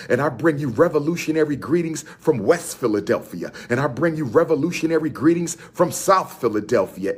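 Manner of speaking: promoter hyping an event; rally the crowd like a street promoter; hype announcement. Real, not acted. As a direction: call the city out to come. Hyping his own appearance.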